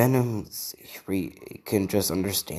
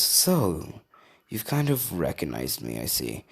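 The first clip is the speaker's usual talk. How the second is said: Venom; 3 semitones lower, 3 dB quieter than usual. Acted. An unseen voice speaks to the studying boy, lightly menacing Venom. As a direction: lightly voice a symbiote, sinking lower at the end. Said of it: "I'm not doing the Venom voice".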